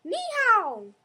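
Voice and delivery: high, loud shout; yelled greeting. Acted. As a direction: shout it out to scare. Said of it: "jump out from behind the bush and yell".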